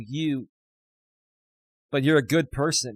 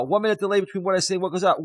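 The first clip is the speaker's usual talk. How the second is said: fast and a bit higher, still buzzing; hurried, giddy explanation; excited rush; 5 semitones higher, faster than usual. Real, not acted. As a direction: blurt it out quickly, excited. Rushing while still overexcited.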